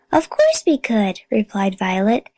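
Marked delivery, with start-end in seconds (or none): 0.1-1.2 higher-pitched, breezy assurance; confident child, pitched up; breezy confidence. A narrator's reading. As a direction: say it as if nothing were too difficult. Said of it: "as if nothing were too difficult".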